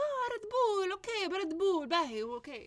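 high, loud mock realization; hammed-up high "oh, now I understand"; sudden recognition. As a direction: imitate a vendor finally getting it. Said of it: "And they're like".

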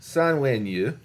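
Sanwenyu in plain pitch with a slight rise; Mandarin word. Shown as a demonstration. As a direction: say Sanwenyu evenly, ending up. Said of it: "salmon in Mandarin Chinese".

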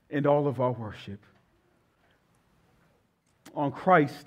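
earnest pastoral prayer, slowing to a hush at the close. Acted. Pastor praying over the congregation before preaching, earnest. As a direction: pray it over the church, sincere and steady.

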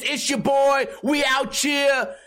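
high, drawn-out hype-man shout; mock the same tired intro; hammed-up hype intro; mock hype host. Quoting the intro again.

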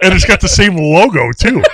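laughing. Real, not acted. Joke about Pfizer logo.

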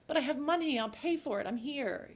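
heavier, worried Cockney; a touch of fretting; stressed Eliza. Shown as a demonstration. Actress demoing the wrong, worried Eliza, understated Cockney. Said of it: "not like".

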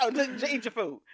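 high, laughing mimicry of a stern order; mock him through laughter; laughing imitation; laughing mock husband. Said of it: "re-quoting husband".

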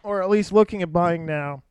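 talking with hiccups. Real, not acted. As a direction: speak between hiccups. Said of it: "God, I got the hiccups".

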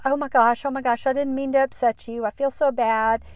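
retelling a coworker's flustered sorry. Retold or imitated. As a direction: rush out the apology, a bit alarmed. Coworker apologizes after causing tears.

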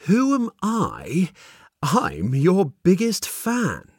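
amused, slow voice of a strange benefactor; mysterious man. Acted. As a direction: play the smug stranger. Mysterious man speaks in story.

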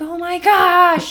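high, loud, drawn-out wail; hammed-up cry of a fed-up adult; mock exasperation. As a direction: drag it out, overwhelmed. Acts how kids make you feel.

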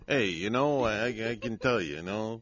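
put-on playful Italian-American wise-guy accent. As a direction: talk like an Italian-American movie tough guy. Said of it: "I got a lot of Italian in me".

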